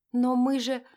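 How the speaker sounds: high, loud, broken-off objection; protesting daughter. A narrator's reading. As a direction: blurt out a pleading protest.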